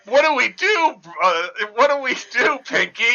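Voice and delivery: high panicky cartoon mouse. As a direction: fret like a frantic lab mouse. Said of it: "It's two mice".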